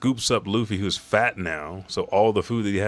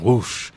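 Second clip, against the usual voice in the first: quick, punchy whoosh sound effect; imitated whoosh; 4 semitones higher, 5 dB louder than usual. Narrator imitating flames rushing at the shield, punchy whoosh.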